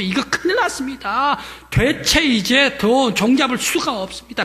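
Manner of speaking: 높고 크게 몰아치며; 청중을 흥분시키듯 외치며; 극적으로 고조된 설교. Real, not acted. 설교자가 극적으로 고조. (높고 크게 외치는 설교)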